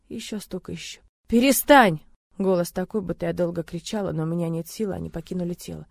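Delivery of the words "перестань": loud desperate scream. Acted. Heroine screaming at him to stop, desperate. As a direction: beg him to stop at full voice.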